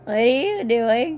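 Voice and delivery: slow, drawn-out mimicked question; stretched-out copy of the line; imitating Maxwell's delivery. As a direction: lightly mimic a bewildered question. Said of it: "Maxwell's delivery was fucking perfect".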